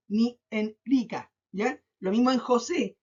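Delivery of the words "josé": José with the final SE stressed. Shown as a demonstration. Teacher giving pupils an example, SE stressed in José. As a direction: lean on SE in José. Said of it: "no marco más la voz en jo".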